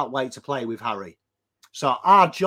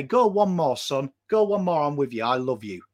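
comforting mate; 3 semitones lower than usual. Retold or imitated. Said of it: "they put their arm around him and they say".

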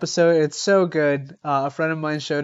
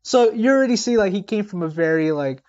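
kindergarten teacher voice. Acted. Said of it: "your reading voice is just like a kindergarten teacher".

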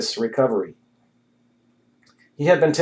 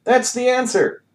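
high, slow, triumphant cry; manic exclamation; 12 semitones higher than usual. A narrator's reading. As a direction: declare it like a revelation.

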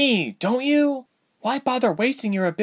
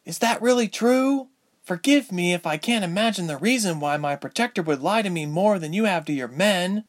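high-pitched, agitated heroine's outburst; rising indignant cry, very high; crying out in accusation; 14 semitones higher than usual. A narrator's reading. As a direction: hurl accusations in a high girl's voice. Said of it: "Ilse cried".

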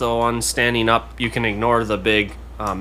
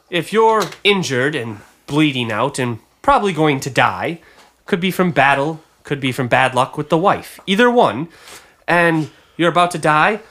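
lightly voiced auctioneer's sales pitch; a hint of a salesman explaining his wares; 5 semitones higher than usual. Auctioneer selling a healer's kit to a bidder, lightly voiced patter.

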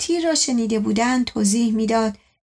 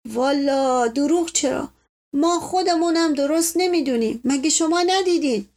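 plaintive evasion; 4 semitones higher than usual. Acted. Servant admits he doesn't know his wound, whining plaintively. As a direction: answer plaintively, dodging the question.

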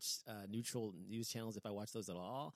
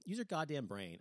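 getting pissed off; 4 semitones higher than usual. Real, not acted. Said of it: "I'm getting pissed off".

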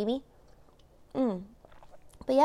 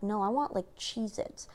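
softer, half-whispered craving for Cheez-Its; 2 semitones lower, 5 dB quieter than usual. Retold or imitated. Hungover morning self, a soft whispered craving. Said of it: "but I'm like".

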